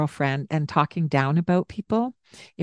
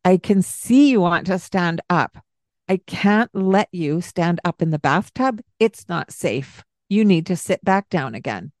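stern. Shown as a demonstration. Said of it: "It's okay to sound stern".

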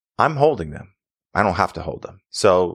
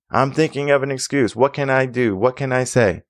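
higher-pitched mock searching; mimicked scrambling for excuses; 6 semitones higher than usual. Swim teacher voicing a kid needing an excuse, mock scrambling. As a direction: act out a kid hunting for an excuse.

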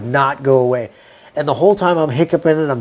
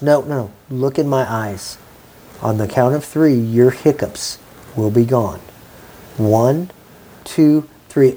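calm, slow hypnotic count; 5 semitones lower than usual. Retold or imitated. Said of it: "She goes".

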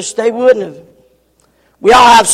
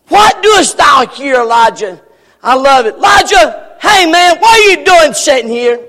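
God calling out. Pretend. God calls to Elijah.

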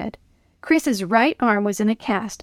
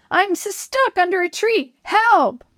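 shouting for help; 10 semitones higher than usual. Acted. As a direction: yell desperately from under the tree. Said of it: "he shouted".

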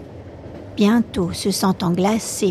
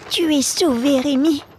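a lightly voiced boy, raised higher; lightly higher boyish voice, gently relieved; Mattia relieved; 6 semitones higher than usual. Mattia tells Rémi he is saved, lightly higher boyish voice. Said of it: "il me dit".

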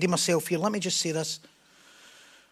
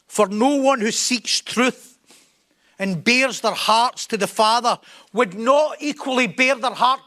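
raised, emphatic sermon delivery; forceful preaching; 4 semitones higher, 4 dB louder than usual. Real, not acted. Preacher challenging those who keep to themselves, forceful preaching. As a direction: press each phrase home to the congregation.

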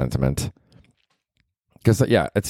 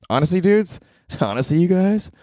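pitched way up and squealing to the listeners; high squeaky excitement; 11 semitones higher than usual. Pretend. Host gushing to listeners about April numbers, squeaky high. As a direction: gush at the listeners in a much higher voice.

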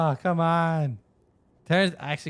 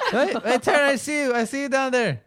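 teasing sing-song; 9 semitones higher than usual. Pretend. Teasing friend from above.

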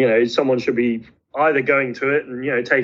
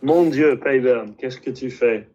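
French exclamation. Retold or imitated. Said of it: "That was what I'd say to him".

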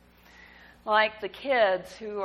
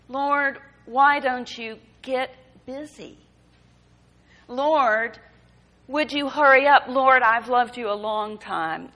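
impatient prayer; 3 semitones higher, 7 dB louder than usual. Retold or imitated. Psalmist pestering the Lord, half-joking and impatient. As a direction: hurry God along like an impatient friend. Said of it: "lifted up in anger and love and impatience".

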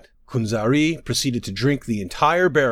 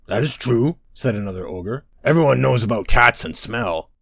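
dim booming giant; 4 dB louder than usual. Acted. Another ogre agrees.

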